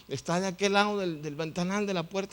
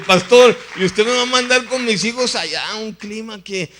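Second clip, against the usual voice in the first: high-pitched, loud appeal to a pastor; loud protest; 5 semitones higher, 13 dB louder than usual. Retold or imitated. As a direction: protest loudly, voice raised high.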